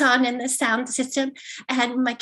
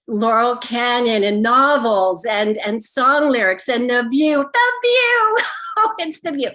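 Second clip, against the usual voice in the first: bursting out laughing; 5 dB louder, slower than usual. Acted. Mom finally remembers the sightseeing answer, bursting out laughing. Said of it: "the mom bursts out laughing and says".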